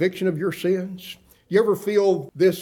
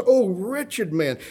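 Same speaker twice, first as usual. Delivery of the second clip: slow, raised-pitch lament; anguished exclamation; 4 semitones higher, slower than usual. Acted. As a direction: exclaim it as Paul, drawing out the words. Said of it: "That's the language of exclamation".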